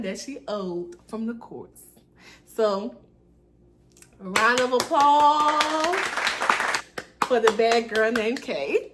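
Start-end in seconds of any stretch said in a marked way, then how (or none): 4.2-8.9 mock self-applause. Real, not acted. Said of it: "mock self-applause".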